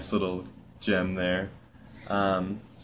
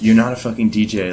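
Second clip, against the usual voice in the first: louder retold yell, held back; mock yell; 7 dB louder than usual. Manager telling off a worker at the bar, mock yelling. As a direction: imitate a manager yelling, only partly raised. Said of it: "full, full strength yelling".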